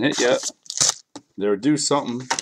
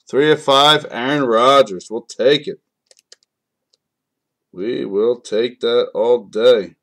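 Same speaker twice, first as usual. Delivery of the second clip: louder, slowed celebration; excited; 5 dB louder, slower than usual. Real, not acted. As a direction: savor it loud and slow. Celebrating the big pull.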